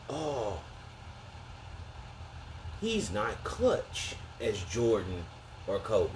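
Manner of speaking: slow drawn-out mock hater. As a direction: drag out the critic's complaint. Mocking what haters say.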